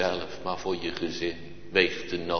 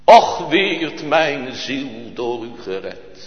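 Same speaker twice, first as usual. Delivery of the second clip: fervent prayer; 5 semitones higher, 10 dB louder, slower than usual. Retold or imitated. Praying aloud in the field.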